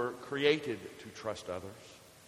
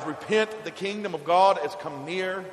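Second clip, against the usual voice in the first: raised, higher-pitched preacher's cry; John the Baptist; 6 semitones higher, 7 dB louder than usual. Retold or imitated. Preacher quoting a prophet to the congregation, raised cry. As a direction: call it out louder and higher, as a retold proclamation. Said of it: "When Saint John the Baptist cries".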